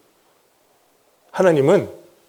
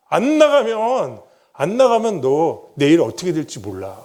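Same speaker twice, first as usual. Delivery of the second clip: a slow, mocking threat; 3 semitones higher than usual. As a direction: drag it out like a menacing threat. Quoted threat from the mob.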